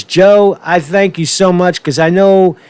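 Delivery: a hint of a scheming politician; mock Kamala inner voice. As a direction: gloat through a fake polite thank you. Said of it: "what she'd really like to say is".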